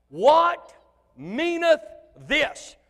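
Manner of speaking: put-on loud, high, slow old-English wonder; archaic astonishment. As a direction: proclaim it like a shocked Bible character. Mock King James wonder.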